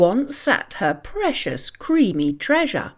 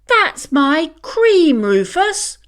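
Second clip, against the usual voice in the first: higher, louder, slow indignant protest; cat protesting to the dog; 6 semitones higher, 5 dB louder than usual. Acted. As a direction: stretch out the complaint. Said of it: "protested Mimi".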